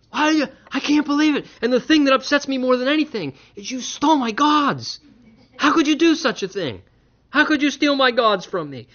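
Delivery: high, loud, hammed-up wail of a robbed man; mock outraged Laban. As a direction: whine like a father whose idols vanished. Preacher mocking outraged Laban.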